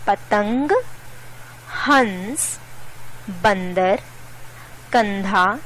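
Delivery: nasal n or ng in पतंग, हंस, बंदर, कंधा; anusvara nasal sound. Shown as a demonstration. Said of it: "नाक से होता है".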